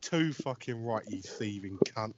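low, slow and soft, under the breath; muttered aside. Retold or imitated. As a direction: re-enact a private dig at the screamer. His aside while other man screams.

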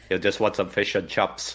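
put-on joking New Zealand accent; Kiwi accent. Commentator auditioning as a Kiwi whale shark, Kiwi accent. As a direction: play it as a Kiwi. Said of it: "Is he a Kiwi?".

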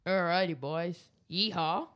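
weak Southern American drawl, barely shifted; a half-hearted Southern American cowboy greeting; Southern American accent. Pretend. Podcaster attempting a Southern American accent for his co-host, barely shifted. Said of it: "You are going to do a Southern American accent".

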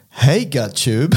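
slow, drawn-out flirty hey; slow pickup line. Pretend. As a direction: lay the pickup line on slowly. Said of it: "my next pickup line will be like".

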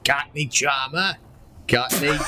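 rough mock Cockney; Cockney attempt. Player searching for Petey's accent, tentative Cockney. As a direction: feel your way into a Cockney accent. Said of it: "do your best Cockney accent".

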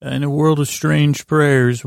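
lightly voiced trailer narrator; movie trailer voice. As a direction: open the epic like a film trailer. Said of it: "That was called the movie trailer".

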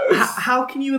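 slow, put-on Brummie accent; Birmingham accent. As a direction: ask it in an imitated Birmingham accent. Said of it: "I'm asking in his accent".

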